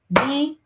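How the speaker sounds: "Bíblia" split into bi, bli, a; "Bíblia" broken up, ending on a rise; syllable-by-syllable sounding out. Acted. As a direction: say "Bíblia" haltingly as three separate syllables. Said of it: "tem muita gente que faz o quê".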